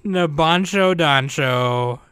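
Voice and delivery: slow, drawn-out cool voice. Pretend. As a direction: say it slow like a cool anime title. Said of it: "You gotta say it in the cool voice".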